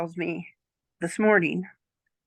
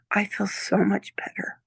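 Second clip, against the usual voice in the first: whisper. Retold or imitated. Quoting granddaughter's gentle thanks.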